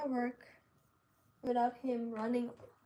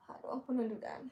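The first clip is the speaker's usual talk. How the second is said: whispering; 4 dB quieter, much faster than usual. Real, not acted. Musing to herself while sewing.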